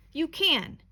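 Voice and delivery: mother coaxing her son, lightly voiced insistence; insistent mother. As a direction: push back on the child, encouraging. Mother insists child can carry.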